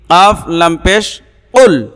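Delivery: কাফ লাম পেশ উল spelled slowly letter by letter; slowly name each letter কাফ লাম পেশ উল; spelling out the letters. Shown as a demonstration. Teacher spelling letters for viewers, slow and deliberate. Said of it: "এটা কিন্তু বড় কাফ".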